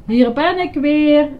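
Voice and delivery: loud, high, drawn-out call. A narrator's reading. Grover flying back over the wall, calling out. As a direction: sing out an arrival from the air. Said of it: "riep Grover".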